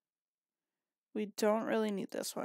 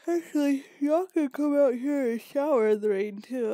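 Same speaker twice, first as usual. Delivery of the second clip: calling out; 5 semitones higher, 8 dB louder than usual. Acted. Calling the Sims outside.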